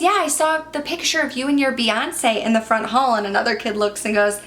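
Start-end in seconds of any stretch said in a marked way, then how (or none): 0.0-3.1 put-on higher, earnest child repeating herself; a little girl insisting to her teacher; kid voice. Student insisting to teacher, high eager kid voice.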